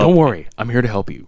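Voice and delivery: lightly voiced fifties radio man; a hint of suave radio reassurance; sensual radio voice. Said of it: "fifties radio voice".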